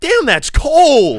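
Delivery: very shrill, very high, very loud, anxious, jittery gorilla voice. Asked to say the phrase like an anxious gorilla: anxious gorilla voice. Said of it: "say damn, that's cold like a like an anxious gorilla".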